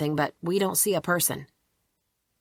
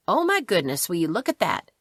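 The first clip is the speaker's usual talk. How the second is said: put-on a light touch of a sweet Southern accent. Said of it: "in that sweet little southern accent of hers".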